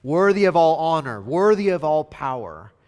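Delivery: loud, rhythmic acclamation; ringing shout of praise; crying out. Acted. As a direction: proclaim it like a crowd praising its king. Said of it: "And so they all cry out".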